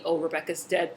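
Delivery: creepy. Retold or imitated. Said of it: "does the creepy".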